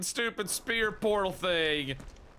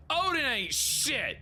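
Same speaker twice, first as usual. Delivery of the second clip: mocking taunt; 8 semitones higher, slower than usual. Real, not acted. Ranting at boss Odin.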